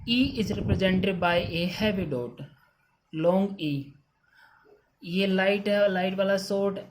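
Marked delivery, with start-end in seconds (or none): 0.1-2.4 each word of "E is represented by a heavy dot" spaced out slowly; teacher dictating the rule word by word; slow dictation. Shown as a demonstration. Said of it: "reading the rule slowly".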